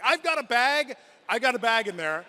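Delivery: half-yell it, pleading to be let in; mock yelling. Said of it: "to be yelling".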